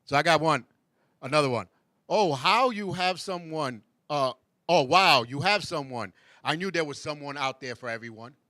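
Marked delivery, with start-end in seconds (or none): 2.1-8.3 mock sweet compliment. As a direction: gush over it while hiding the dig. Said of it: "a lot of people use, but it is kinda sarcastic".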